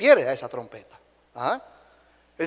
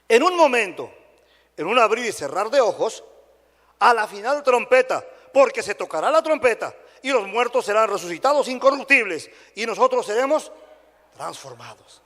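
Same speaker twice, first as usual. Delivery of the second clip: emphatic proclamation, phrase by phrase; scripture reading; 3 semitones higher than usual. Real, not acted. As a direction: proclaim the verse, then drop hushed on the last word. Reads scripture aloud to congregation.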